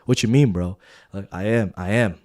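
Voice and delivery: loud, defensive pushback; offended. Retold or imitated. Young supervisor to his senior who gave advice, offended. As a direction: retort as if mildly insulted. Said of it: "I kinda got offended".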